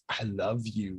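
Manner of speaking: soft, barely voiced; mimed words. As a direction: mouth it silently through glass. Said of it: "like, mimes".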